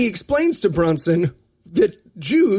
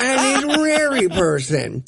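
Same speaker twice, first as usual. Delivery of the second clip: slow, hammed-up fake Israeli accent; mock bad Israeli accent; 3 semitones higher, slower than usual. Mocking the actor's bad Israeli accent. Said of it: "you can do an Israeli accent, right?".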